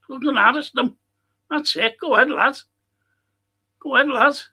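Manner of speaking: high, loud cheering on the lads; urgent shouted encouragement; excited cheering. Real, not acted. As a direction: roar your team on from the stands. Cheering on the team live.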